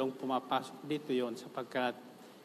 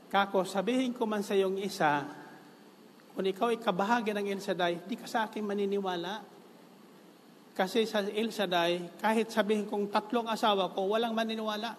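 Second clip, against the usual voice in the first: higher, faster teasing to the crowd; raised joking voice; 6 semitones higher than usual. Real, not acted. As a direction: pitch it up as a joke to the crowd. Joking about El Shaddai, rising. (pabirong nagtataas ng boses sa kongregasyon)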